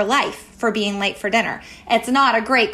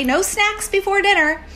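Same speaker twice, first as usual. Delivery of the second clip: calm no; 9 semitones higher than usual. Retold or imitated. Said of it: "And you calmly say".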